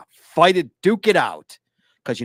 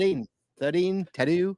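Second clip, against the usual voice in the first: imitated Australian accent, T leaning to D; 5 semitones higher than usual. Shown as a demonstration. Host proving he cracked the Australian accent, mock Australian accent. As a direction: practise Aussie word samples. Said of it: "I figured out the Australian accent".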